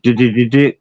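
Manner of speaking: imitating a mocking stutter; mocked stutter. Cop mocking the speaker's stutter, mock stammer. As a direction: stammer one syllable in mimicry. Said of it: "'cause I stutter sometimes".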